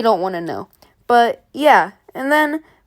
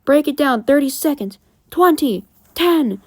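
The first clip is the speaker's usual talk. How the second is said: higher, urgent called-out countdown; gang member's countdown; 3 semitones higher, 3 dB louder than usual. Retold or imitated. Red Hood member rushing the gang, urgent countdown. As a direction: call out each number, pitched up. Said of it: "one of the Red Hood members says".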